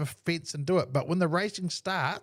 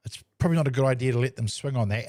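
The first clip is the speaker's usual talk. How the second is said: nice and calm. Retold or imitated. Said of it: "And I said it nicely and calmly".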